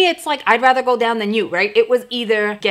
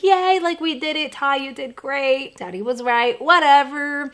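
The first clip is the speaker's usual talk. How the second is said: high, bright cheer, mildly mocking at the end; retold cheer; 4 semitones higher than usual. Mom cheering her daughter after the bridge, high and excited. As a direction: squeal of relief, then shrug it off. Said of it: "I was like".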